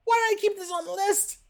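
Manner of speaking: very high, strained puppet voice; Elmo. Pretend. Player stuck talking as a puppet for two minutes, high strained Elmo voice. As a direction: squeeze out a high-pitched children's puppet voice. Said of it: "I don't sound like Elmo".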